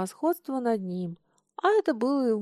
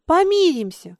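ingratiating; 6 semitones higher, 9 dB louder than usual. Acted. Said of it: "заискивающе заглядывая ему в лицо".

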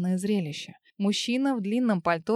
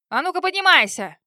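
higher, louder furious shout; yelling; 7 semitones higher, 8 dB louder than usual. A narrator's reading. Husband screaming at his fallen wife, furious yell. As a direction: roar the order at her. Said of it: "заорал на неё муж".

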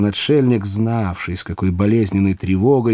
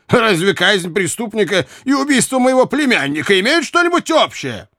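high, indignant question climbing higher; enraged; 9 semitones higher than usual. A narrator's reading. Uncle challenging the provost over his nephew, indignant. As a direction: demand it in outrage, rising to the end. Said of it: "воскликнул взбешённый Лесли".

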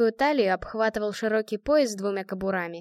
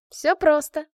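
снисходительно; 7 semitones higher, 6 dB louder, slower than usual. A narrator's reading. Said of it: "снисходительно улыбнулась Натка".

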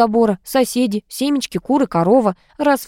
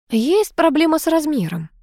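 cooing; 7 semitones higher than usual. A narrator's reading. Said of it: "заворковала я".

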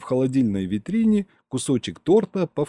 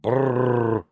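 indignant brrr. A narrator's reading. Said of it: "продублировал возмущение".

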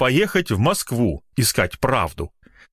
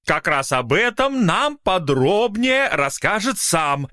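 higher, hesitating official tone; thin secretary; 6 semitones higher than usual. Acted. Secretary introduces Mykola to journalists, higher and halting. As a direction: speak like a pompous little clerk.

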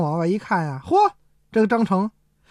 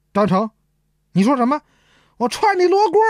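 stern rebuke; 6 semitones higher than usual. Acted. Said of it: "大胆".

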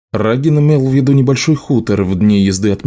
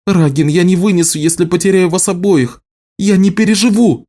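tearful; 8 semitones higher than usual. A narrator's reading. Элиса плачет, всхлипывает.

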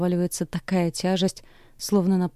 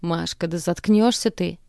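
mild roar. Acted. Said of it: "ревёт отец".

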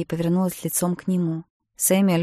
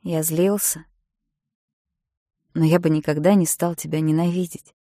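softly spoken. A narrator's reading. Samuel reassures Josie he never hated her, gently. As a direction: soften it, let him calm her. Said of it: "Голос Сэмюэля прозвучал мягко".

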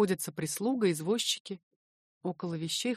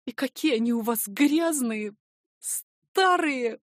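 put-on mildly tearful, rising on old; a touch of tears in the voice; 4 semitones higher, 5 dB louder, slower than usual. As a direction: Varya handing over galoshes, mildly tearful. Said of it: "Со слезами".

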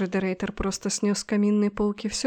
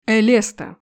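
громкий глухой окрик из-за стены; резко позвать по имени, громко; 6 dB louder than usual. Acted. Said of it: "Глухой, искажённый, но вполне узнаваемый". (искажённый громкий зов)

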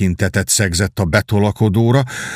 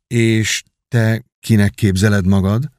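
gentle. Acted. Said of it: "ugyanolyan szelíd hangon".

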